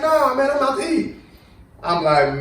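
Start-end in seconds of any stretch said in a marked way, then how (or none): 0.0-1.1 raised, casual dad voice; daddy's reply. Retold or imitated. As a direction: shrug it off like the unbothered father. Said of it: "He's like".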